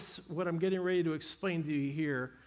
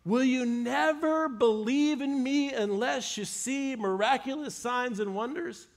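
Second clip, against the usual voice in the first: slow, higher, measured rebuke; Jesus rebuking; 5 semitones higher, slower than usual. Retold or imitated. Jesus challenging the crowd of Galileans, slow and firm. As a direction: lay each word down slowly, a challenge to the crowd. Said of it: "here's what Jesus says".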